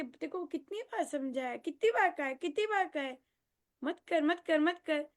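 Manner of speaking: a parent wagging a finger, repeating no; nagging parent. Retold or imitated. Parent telling off a child who keeps doing it, mock scolding. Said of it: "बार बार बोलेंगे".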